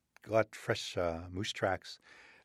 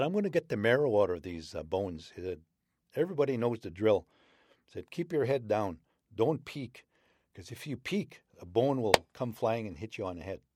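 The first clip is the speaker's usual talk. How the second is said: put-on old man wolf; 3 semitones higher than usual. Old man wolf warning the pack not to peek, brisk voice. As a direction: lay down the rules fast.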